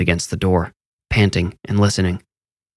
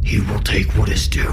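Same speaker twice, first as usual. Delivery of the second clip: whispered threat; eerie whisper. A narrator's reading. Demon voice threatens Harold, eerie whisper. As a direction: hiss the promise inside his head. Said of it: "the other voice filled Harold's head".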